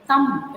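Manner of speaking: thumb ending on M, no B; silent B. Shown as a demonstration. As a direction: leave the B off thumb. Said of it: "The B should be silent".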